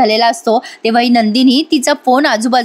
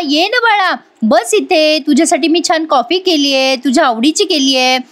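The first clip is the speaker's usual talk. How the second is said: fake sweetness; 4 semitones higher than usual. Aunt fakes sweetness to Kavya.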